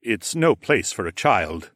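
slow weary sigh; tired refusal. A narrator's reading. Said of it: "Rodion sighed".

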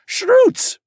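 high, loud creature call; creature holler. Acted. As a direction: holler it like a hungry beast. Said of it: "Prosper hollered".

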